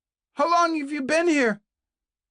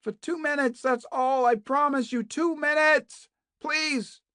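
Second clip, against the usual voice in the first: much higher and louder, pleading; desperate begging shout; 9 dB louder than usual. A narrator's reading. Kate begs Naomi to talk, desperate shouting plea. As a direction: beg at full voice through the wall. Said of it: "beginning to sound hoarse".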